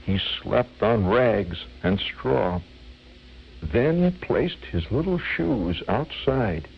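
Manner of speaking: slow, measured melodramatic verse; imitated amateur stage orator; dramatic reciter. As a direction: draw out each phrase with grave pauses. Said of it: "in a very dramatic voice".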